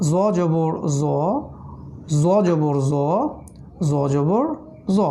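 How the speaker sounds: জ জবর জ chanted slowly and evenly; vowel drill. Shown as a demonstration. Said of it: "জবর হচ্ছে জ".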